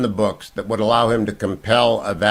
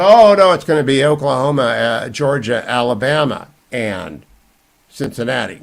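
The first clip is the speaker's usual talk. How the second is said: mocking the pundits; 3 semitones higher, 6 dB louder than usual. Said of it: "Right now, people say".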